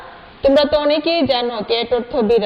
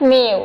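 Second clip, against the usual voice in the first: cat meow; 2 semitones lower, slower than usual. Retold or imitated. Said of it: "তারপরে বিড়ালটা বলছে".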